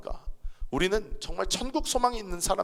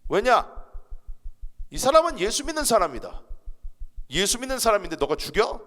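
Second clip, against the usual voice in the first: bold rebuke; 4 semitones higher than usual. Retold or imitated. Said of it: "그랬어요".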